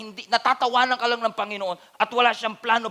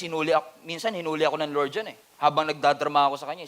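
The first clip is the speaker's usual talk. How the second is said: ordinary talk, nothing marked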